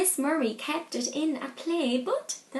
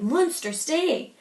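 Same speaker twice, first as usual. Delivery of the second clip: grunting monster; 3 semitones higher, 4 dB louder, slower than usual. Acted. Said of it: "it grunted".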